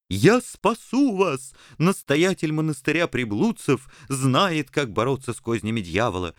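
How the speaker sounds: smarmy priest promising salvation; abbot voice. Acted. Abbot speaking.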